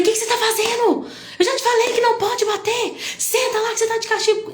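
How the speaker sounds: angry yelling. Retold or imitated. Mother scolding her son for hitting children, high furious yell. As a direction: blow up at the child like a mother losing it. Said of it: "eu estourei".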